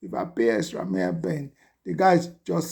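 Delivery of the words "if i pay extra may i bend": much lower, pleading "If I pay extra, may I bend"; deep mock plea. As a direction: drop the voice low and beg. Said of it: "Bí mo ṣe sọ fún wọn".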